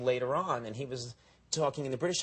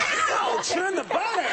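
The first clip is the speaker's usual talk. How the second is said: high, loud hammed-up whoop; mock party shout; 8 dB louder, slower than usual. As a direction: yell it like a party chant, in jest. Pretends the Queen raises the roof.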